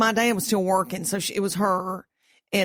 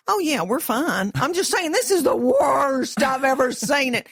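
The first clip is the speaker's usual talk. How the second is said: gloomy daddy; 4 semitones higher than usual. Retold or imitated. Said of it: "And he goes".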